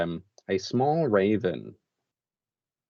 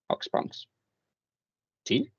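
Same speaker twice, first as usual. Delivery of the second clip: put-on old woman offering tea; 11 semitones higher than usual. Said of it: "And she goes".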